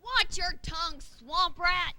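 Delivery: gruff pirate insult; pirate snarl. Acted. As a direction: snap like an offended pirate.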